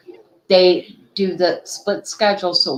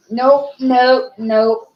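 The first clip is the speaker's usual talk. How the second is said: firm no; 5 semitones higher, 4 dB louder, slower than usual. Real, not acted. Taking earbud from puppy.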